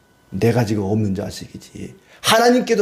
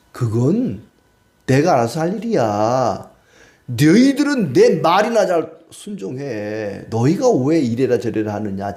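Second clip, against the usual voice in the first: stern God. Acted. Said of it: "하나님께서 이제 말씀하시는 겁니다".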